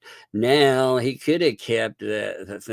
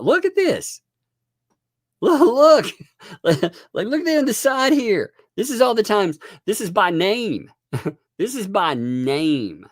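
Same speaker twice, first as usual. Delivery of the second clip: much higher, laughing excitement; excited laughing; 12 semitones higher, 4 dB louder than usual. Real, not acted. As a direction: squeal over the find, laughing. Excited laughing over screenshots.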